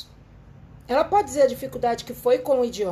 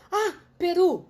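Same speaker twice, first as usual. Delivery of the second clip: laughing realization; 5 semitones higher, slower than usual. Retold or imitated.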